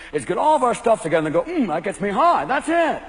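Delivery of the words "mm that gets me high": slow, satisfied purr; smug yuppie. Acted. Yuppie couple over their stuff, slow and pleased. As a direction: savor your possessions slowly.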